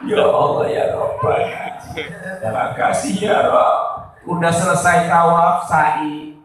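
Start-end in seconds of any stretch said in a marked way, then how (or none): 0.1-4.2 imitating sobbed, mostly voiceless prayer; mock crying with a choked voice; tearful thanks. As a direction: act out weeping gratitude to God. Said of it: "Nangis saya".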